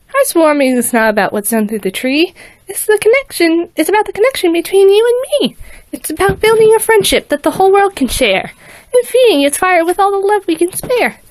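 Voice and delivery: put-on high pleading girl voice; earnest little filly. A narrator's reading. Filly explains friendship to Vader, high and earnest. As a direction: plead warmly like a small child.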